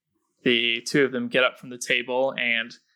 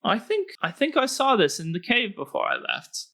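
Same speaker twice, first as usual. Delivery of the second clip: goblin-looting thief; 10 semitones higher than usual. Acted. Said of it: "and says".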